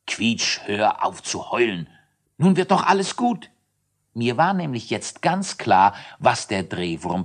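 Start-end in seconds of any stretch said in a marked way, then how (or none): 0.0-3.5 comforting. Acted. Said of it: "Ich aber tröstete".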